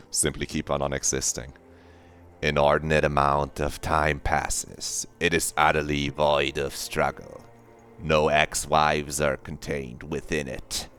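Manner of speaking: measured, understated narrator voice; game narration. Acted. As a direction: read it as the game's brooding narrator. Voice-acts the game's narration.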